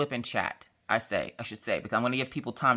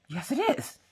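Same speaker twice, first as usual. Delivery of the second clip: squeaky little contradiction; teasing insistence; 11 semitones higher than usual. Retold or imitated. Mom contradicting daughter about nuggets, squeaky teasing. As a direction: contradict in a tiny, very high voice.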